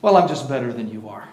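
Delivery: a churchgoer bragging to the others, in a smug mock boast. A congregant bragging he is better, in a hammed-up smug tone. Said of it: "Nobody can brag and say".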